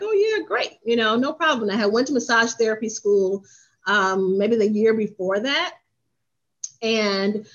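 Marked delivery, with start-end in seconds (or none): 0.0-1.7 lightly voiced cheerful owner, pitched higher on oh yeah; a hint of the eager boss saying yes; mock upbeat yes from the owner; quoting the owner. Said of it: "She was like".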